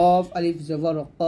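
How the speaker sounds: heavy back-of-mouth ক, held long; thick, full letter. Shown as a demonstration. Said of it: "কফটা মোটা হবে".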